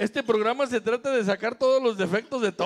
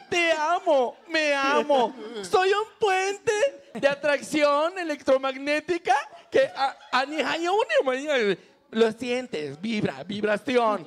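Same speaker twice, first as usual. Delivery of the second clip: extraterrestrial voice. Pretend. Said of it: "habla como extraterrestre".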